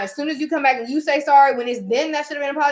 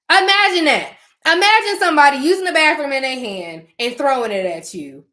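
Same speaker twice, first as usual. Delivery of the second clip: indignant; 3 semitones higher, 6 dB louder than usual. Real, not acted. Indignant at having said sorry.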